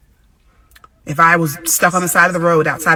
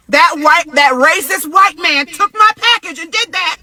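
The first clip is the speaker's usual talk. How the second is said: loud, high, excited exclamation; amazed exclaiming; 11 semitones higher, 5 dB louder than usual. Retold or imitated. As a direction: shout it, amazed at what he did. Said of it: "I was like".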